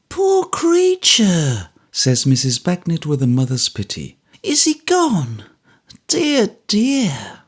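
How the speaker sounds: high, slow motherly pity; Mrs Bagnet, pitying. A narrator's reading. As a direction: sigh it out like a kind soldier's wife.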